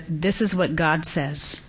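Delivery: soft, measured teacher voice, imitated; gentle, understated authority; loving but firm. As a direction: calmly tell a child to obey. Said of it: "she very lovingly says".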